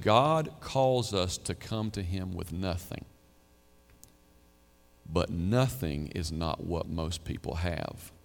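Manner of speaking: measured quote, settling down to a hush; solemn quotation. Retold or imitated. Quoting the preacher's weighty saying.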